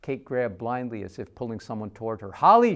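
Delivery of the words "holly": desperate shout, much higher and louder; anguished cry to a lost child. Acted. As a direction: scream the name after someone torn away. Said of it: "she cried".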